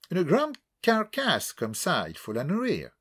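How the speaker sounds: vieille Anglaise qui détache chaque syllabe, lentement; lentement, syllabe par syllabe. A narrator's reading. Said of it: "prononcé le mot lentement en déliant chaque syllabe". (mamie anglaise qui parle au géant en détachant lentement ses mots)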